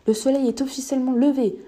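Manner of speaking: lifted, declarative delivery; announcing. A narrator's reading. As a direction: announce it like official news. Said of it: "annonça-t-il".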